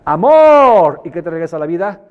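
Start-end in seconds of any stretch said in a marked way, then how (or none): 0.0-1.0 a big, loud, high shout of amor; shouting love. Shown as a demonstration. Shouting love out to life, loud shout. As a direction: call it out to life at full voice. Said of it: "Grítale a la vida".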